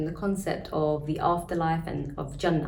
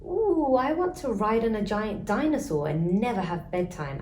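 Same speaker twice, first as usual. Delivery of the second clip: beaming; 4 semitones higher than usual. Acted.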